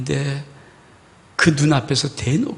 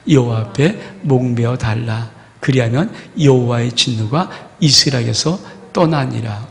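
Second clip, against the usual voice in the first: congregational scripture reading; 3 semitones lower, 4 dB louder than usual. Acted. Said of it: "같이 한번 읽겠습니다".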